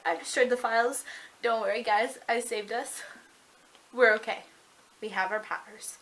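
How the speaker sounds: lightly imitated self-satisfied boast; proud of himself. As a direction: reassure everyone with a touch of mock pride. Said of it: "he's all proud of himself".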